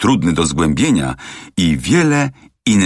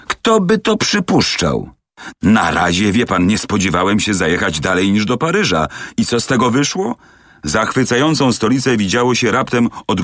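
a touch higher, eager talkative manservant; lightly voiced chatty servant; 4 semitones higher than usual. Servant complains to Fix about the rushed trip, lightly voiced chatter. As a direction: rattle on like a gossiping valet.

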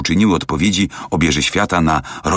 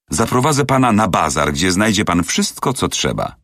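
lightly voiced chatty servant; 3 semitones higher than usual. Servant complains to Fix about the rushed trip, lightly voiced chatter. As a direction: rattle on like a gossiping valet.

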